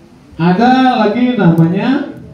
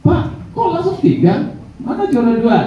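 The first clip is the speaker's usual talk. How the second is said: much higher, mock yelling heckler; heckler shout; 10 semitones higher than usual. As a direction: call out to interrupt the host. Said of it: "Dia teriak".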